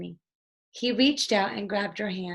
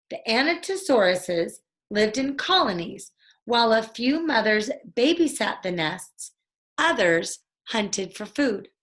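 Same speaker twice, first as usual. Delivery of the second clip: reading aloud; 4 dB louder than usual. Acted. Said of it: "He read the caption".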